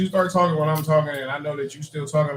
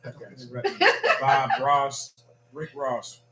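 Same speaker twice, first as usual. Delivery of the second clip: talking while eating; words round a bite of Pop-Tart; mouth full; much slower than usual. Real, not acted. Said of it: "Are you eating a Pop-Tart?".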